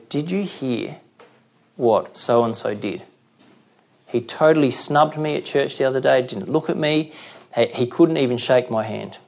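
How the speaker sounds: hushed, gossiping church member; gossipy complaint. Retold or imitated. Church member gossiping to a friend, hushed and aggrieved. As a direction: lean in and dish the gossip quietly.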